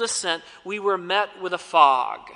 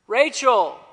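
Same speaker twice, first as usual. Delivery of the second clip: calling out; 3 semitones higher, 4 dB louder than usual. Retold or imitated. Roll call in fog.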